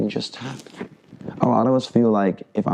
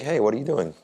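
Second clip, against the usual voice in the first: a higher, calm and even question; 4 semitones higher than usual. Shown as a demonstration. Coach showing students a calm reply to a cheap shot, calm and even. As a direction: keep it easy, defuse him. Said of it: "the calmer your voice, the better".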